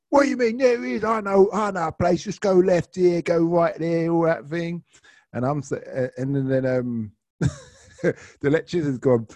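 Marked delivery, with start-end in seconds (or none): 0.1-4.8 put-on high-pitched drunken passenger protesting; imitated eager insistence. Drunk passenger directs the driver to an off licence, high insistent imitation. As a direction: insist in a high, pushy mock voice.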